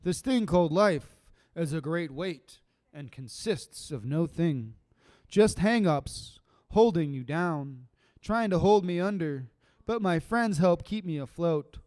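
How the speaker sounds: measured spoken word delivery; spoken word poem. Acted. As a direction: let each line settle.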